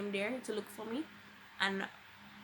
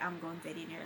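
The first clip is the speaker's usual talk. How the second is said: mocking lady; 5 semitones lower, 4 dB quieter, faster than usual. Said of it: "she was all like".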